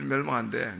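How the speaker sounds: grudging prophet muttering doom; reluctant mumble. Retold or imitated. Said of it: "그냥 별로 가고 싶지는 않은데".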